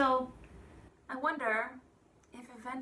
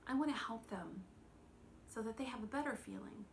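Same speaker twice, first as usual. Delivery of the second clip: soft inner thought; 6 dB quieter than usual. Retold or imitated. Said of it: "we think to ourselves".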